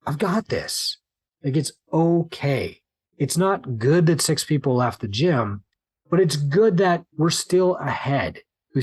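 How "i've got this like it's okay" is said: calm reassurance. Retold or imitated.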